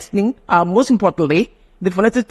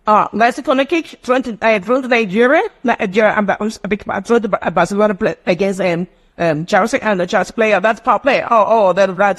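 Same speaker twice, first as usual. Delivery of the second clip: quick nasal match commentary; nasalized breaking pattern; 2 semitones higher than usual. Shown as a demonstration. Teacher mimicking football commentary to demonstrate nasalization, nasal delivery. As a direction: speak through the nose, fast and broken. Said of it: "That's nasalized word".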